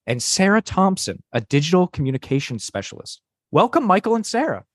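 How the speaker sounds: scripted podcast host voice; podcast host read. Acted. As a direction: read it like a tech show host. Reads AI script as host Lisa.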